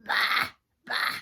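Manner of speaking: loud sheep baas; imitation of a bleating sheep. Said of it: "Sheep came along".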